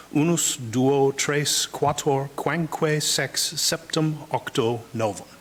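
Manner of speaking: measured list, falling away on the last words; Latin recitation. Shown as a demonstration. Lecturer reading out Latin numerals for comparison, deliberate recitation. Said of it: "Or this string of words".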